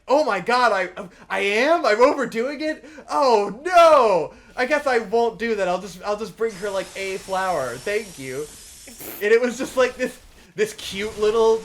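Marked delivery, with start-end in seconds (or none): 0.1-8.4 much louder, higher, hammed-up shock; shocked side-quest guy. Acting the flower-collecting quest guy, hammed-up shock. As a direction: gasp it out like a flustered little man. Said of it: "And he's like".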